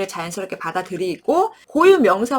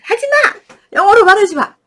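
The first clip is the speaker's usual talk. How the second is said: put-on high, loud whiny child yelling; a five-year-old shouting at mom to stop; child's protest; 12 semitones higher, 10 dB louder than usual. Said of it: "제 입을 막 이렇게 막아버렸어요". (높고 크게 떼쓰는 아이 목소리)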